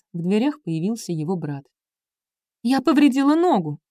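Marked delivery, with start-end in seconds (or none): 2.6-3.8 higher, louder mock cry of pain; hammed-up yelp about a hurt leg. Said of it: "вскрикнула Билли". (нарочито громкий вскрик, выше тоном)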